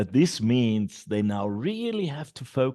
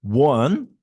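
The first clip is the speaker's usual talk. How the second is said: calling out; 7 dB louder than usual. Shown as a demonstration. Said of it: "And I say".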